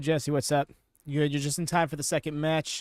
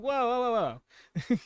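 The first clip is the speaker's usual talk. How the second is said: mock startled; 6 semitones higher than usual. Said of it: "she's like".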